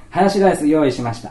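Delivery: put-on child telling the principal the meal is ready; child announcing. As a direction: proudly announce it.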